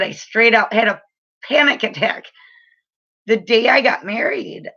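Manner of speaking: ordinary delivery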